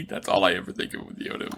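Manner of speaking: laughing almost silently; words breathed out through laughter; breathy laughing. Real, not acted.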